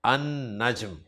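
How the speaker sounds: अन-नज्म said an-najm with a doubled n, no l; no l in अन-नज्म, hold the n; अन-नज्म: soft, lam swallowed into n; Arabic article demo. Shown as a demonstration. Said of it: "तो लाम नहीं पढ़ेंगे".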